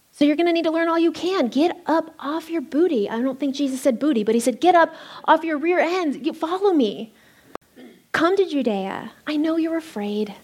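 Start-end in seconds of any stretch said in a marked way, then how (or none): 0.1-3.1 higher, fast, playful push; urging. Acted. Voicing Jesus urging disciples. 4.6-10.3 higher, insistent call to come; rally them to follow; urging. Acted. Voicing Jesus urging disciples.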